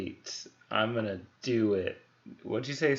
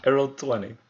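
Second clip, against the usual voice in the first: excited; 4 semitones higher, 12 dB louder than usual. Real, not acted. Player cheers natural twenty.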